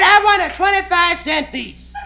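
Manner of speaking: high, slow lady voice through a laugh; falsetto woman calling. Acted. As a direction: order it sweetly in a squeak. Woman yells down from upstairs.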